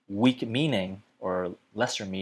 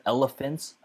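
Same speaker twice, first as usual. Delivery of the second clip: "elephants" pitched up high for emphasis; stress on elephants; 5 semitones higher than usual. Shown as a demonstration. Teacher marking the key word of an example, raised stress on "elephants". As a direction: lift "elephants" up to make it the topic. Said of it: "So here you wanna emphasize".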